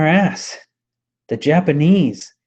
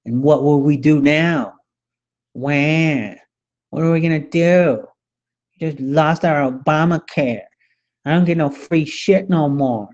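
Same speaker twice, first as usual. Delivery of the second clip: mock whining. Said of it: "whining because they lost an election".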